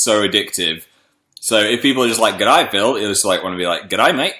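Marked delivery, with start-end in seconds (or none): 2.3-3.0 lightly imitated Australian greeting; Australian accent. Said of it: "I love the Australian accent so much". 3.9-4.3 imitated Australian accent, lifting at the end. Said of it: "copying people's Australian accents".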